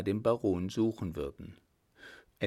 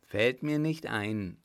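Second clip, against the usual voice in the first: laughing; 4 dB louder than usual. Acted. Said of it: "lachte der Baron".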